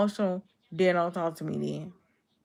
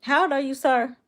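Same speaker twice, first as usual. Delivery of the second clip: incredulous; 8 semitones higher, 5 dB louder than usual. Real, not acted. Incredulous question to a chat troll.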